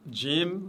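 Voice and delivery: "Jim" called out clearly; Arabic jim. Shown as a demonstration. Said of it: "toujours légère cette lettre".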